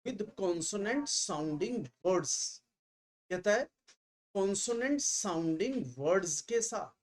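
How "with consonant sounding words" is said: very slow, word by word; slow, deliberate teacher read; slow dictation. Shown as a demonstration. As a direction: spell it out slowly for the class. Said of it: "इसके पढ़ने का तरीका वही है".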